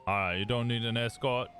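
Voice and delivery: helpful Southern cop offering help; put-on Southern accent, friendly question. Cop offers the medics an escort, in a Southern accent. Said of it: "I'm clearly English doing a Southern accent".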